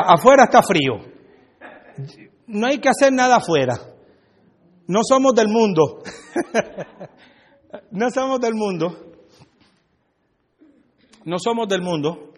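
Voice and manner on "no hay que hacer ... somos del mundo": ordinary delivery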